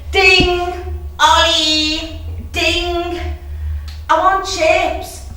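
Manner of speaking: high, loud calling from the hallway; Becky calling out. Retold or imitated. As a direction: bellow up the stairs impatiently. Becky calling at reception bell.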